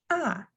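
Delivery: "ah" falling like an ouch; falling fourth tone. Shown as a demonstration. Teacher linking ouch to the tone, falling "ah". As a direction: drop "ah" quickly from the top. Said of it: "that's the same tone".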